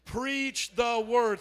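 slow, falling call to preach; preach the word again. Shown as a demonstration. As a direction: drag it out for the crowd. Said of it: "One more time".

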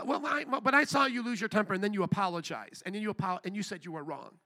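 a hint of a stuck-up coworker pointing out your fault; stuck-up accuser. Coworker mocking the believer's apology, a touch stuck up. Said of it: "they kinda talk like this, a little stuck up".

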